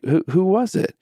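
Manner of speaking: high-pitched, stammered question; retold confusion. Dad pressing his son for a name, high and puzzled. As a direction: press for the answer, baffled. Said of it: "I'm now confused".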